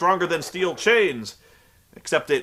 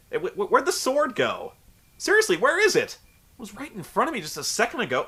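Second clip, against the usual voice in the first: baffled; 5 semitones higher than usual. Real, not acted. Can't find the sword.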